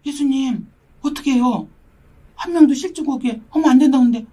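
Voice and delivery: tearful prayer. Retold or imitated. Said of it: "아, 내가".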